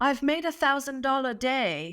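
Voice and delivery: put-on high, laughing Australian accent. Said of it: "with her beautiful Australian".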